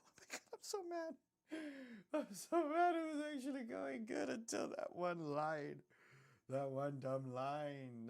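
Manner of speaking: high-pitched, whiny mock sob of frustration; fake-cry your way through it, voice shooting up. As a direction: wail in pretend despair over a small mistake. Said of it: "I don't cry".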